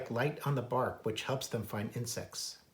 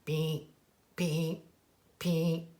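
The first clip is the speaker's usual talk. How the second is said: woodcock beep; 3 semitones higher, much slower than usual. Acted. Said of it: "this woodcock calls".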